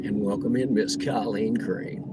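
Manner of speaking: announcer voice. Pretend. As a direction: announce her like a ring announcer. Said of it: "in my best announcer voice".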